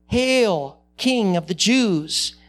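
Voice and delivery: mocking. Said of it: "they mocked".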